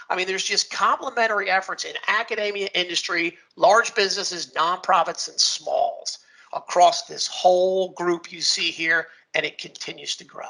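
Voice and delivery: rough, gravelly speaking voice. Real, not acted. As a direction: talk with a worn, gravelly rasp. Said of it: "break from my gravelly voice".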